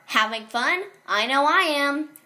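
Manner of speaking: lightly voiced mascot chatting to kids; animatronic greeter. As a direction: play it like a pizzeria mascot. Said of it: "saying things like".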